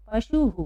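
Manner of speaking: "पशुहु" with the visarga voiced as हु; teacher sounding out "पशुहु"; visarga demonstration. Shown as a demonstration. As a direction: echo the उ after ह at the end of "पशुहु". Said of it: "पढ़ते समय क्या पढ़ेंगे?".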